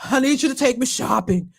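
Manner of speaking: lightly mocked breathless diva; imitation of a swollen-throated, gasping woman; gasping impersonation. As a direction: catch a breath mid-phrase as you imitate her. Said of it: "she's kinda gasping for breath".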